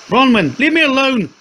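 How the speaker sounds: high, loud scream back. Acted. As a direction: scream it at him. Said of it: "she screamed back".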